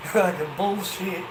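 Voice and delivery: slow, loud mock yell; slow loud retold outburst. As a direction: drag out a loud scoff. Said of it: "I yelled out".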